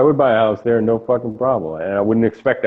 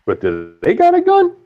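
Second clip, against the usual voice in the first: mocking 911 operator; 9 semitones higher than usual. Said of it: "the nine one one chick is like".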